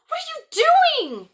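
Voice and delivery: very high, loud screech; girl screeching as her rose is torn. Acted. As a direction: shriek it in horror. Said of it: "Gerda screeched".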